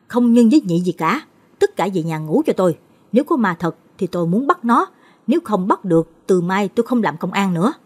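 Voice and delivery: stern, irritated commands; gruff orders. Acted. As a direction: lay down the law to the family. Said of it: "Chú Mạnh gắt".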